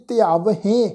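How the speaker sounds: ਧਿਆਵਹੇਂ with a sounded h and nasal ending; nasalised ending. Shown as a demonstration. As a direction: finish ਧਿਆਵਹੇਂ on a nasal "hen". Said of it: "ਜਿਵੇਂ ਅਸੀਂ ਪਾਠ ਉਚਾਰਨ ਕੀਤਾ ਸੀ ਜੀ". (ਧਿਆਵਹੇਂ, ਅਖੀਰ ਬਿੰਦੀ ਸਹਿਤ)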